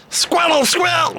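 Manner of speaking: high squeaky cartoon creature cry; Squirtle impression. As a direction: squeal the name like a tiny turtle Pokemon. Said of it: "Do Squirtle impression".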